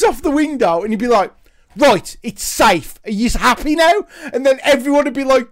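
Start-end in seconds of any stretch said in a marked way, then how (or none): 1.8-4.1 smug. Retold or imitated. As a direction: taunt them with it. Smug worker after bounce.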